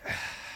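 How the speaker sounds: a soft weary sigh; tired sigh. Retold or imitated. Kakashi sighing about his two students, soft and weary. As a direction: let out a soft, tired breath. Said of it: "Kakashi's a sigh".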